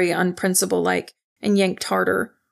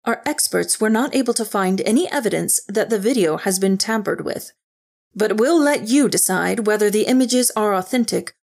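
measured TV news delivery; news anchor. A narrator's reading. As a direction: present it like a broadcast warning. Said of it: "the female Asian anchor said".

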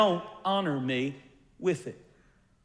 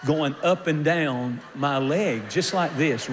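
laughing; 2 semitones lower than usual. Real, not acted. Laughing while telling funny story.

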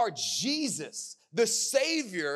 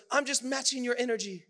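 imitated retort, pitched higher; mock comeback in a quarrel; raised voice back; 5 semitones higher than usual. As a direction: answer back in a mildly raised voice. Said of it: "started raising her voice back".

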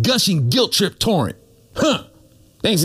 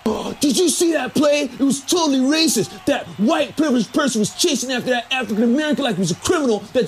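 mocking whiny fan; 3 semitones higher than usual.

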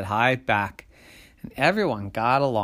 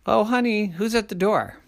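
higher, singsong parent call; big person calling; 10 semitones higher, 4 dB louder than usual. A narrator's reading. Big person coming over to the door, calling. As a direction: call over sweetly to your honey.

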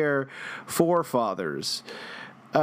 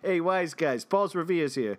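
put-on Boston accent. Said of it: "our best Boston accented".

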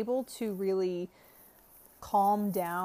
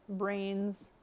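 light zombie moan on brains; a hint of a hungry zombie. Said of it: "only a light zombie impression".

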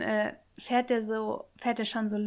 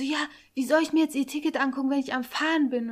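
quick, raised retold complaint; imitating an annoyed driver, fast and higher; loud complaint; 3 semitones higher, 3 dB louder, faster than usual. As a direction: rattle off a mock telling-off. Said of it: "hat er richtig laut gesagt".

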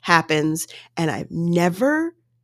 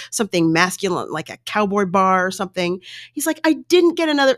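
mimicking the husband; 6 semitones higher than usual.

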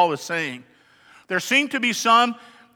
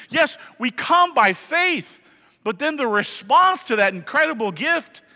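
preaching shout; 5 semitones higher than usual. Real, not acted. Preaching climax.

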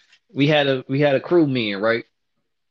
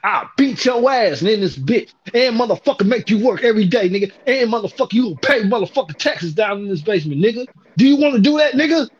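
jail threat. Retold or imitated. Threatening the workers with jail shit, mild menace. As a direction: lean into jail talk. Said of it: "I really got on some jail shit".

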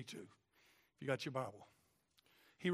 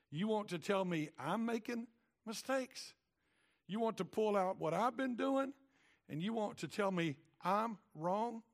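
God rebuking Job; 5 semitones higher than usual. Acted. God confronting Job, rising and indignant. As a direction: challenge him with building indignation.

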